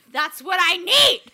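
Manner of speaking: put-on a kid insisting through laughter; laughing kid's demand. Kid telling his mom which shoes he needs, laughing.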